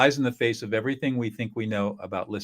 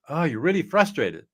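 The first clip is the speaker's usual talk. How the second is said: demo affect label; 5 semitones higher than usual. Shown as a demonstration. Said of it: "So you could say something".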